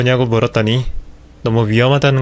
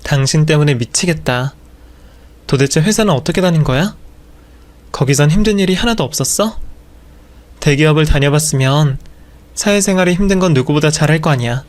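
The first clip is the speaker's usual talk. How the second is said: exasperated nagging; 3 semitones higher than usual. Acted. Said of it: "잔소리를 퍼부었습니다".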